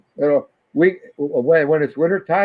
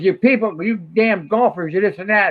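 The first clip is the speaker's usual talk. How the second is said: mock angry rant; 6 semitones higher than usual. Father voices neighbour scolding golfers, higher mock rant. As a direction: sputter like a fed-up homeowner. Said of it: "He goes".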